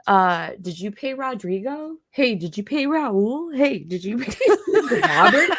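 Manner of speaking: playful calls breaking into laughter; mock-innocent question, laughing; teasing wrong names. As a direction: tease by getting the name wrong.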